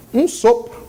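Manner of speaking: "Um sopro" breathed out like a puff of air; "Um sopro" as a whispered breath. Shown as a demonstration.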